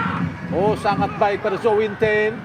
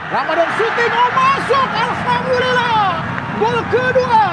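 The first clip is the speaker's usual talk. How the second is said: goal call; 9 semitones higher than usual. Real, not acted. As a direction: scream it as the ball goes in. Commentator calls the second goal.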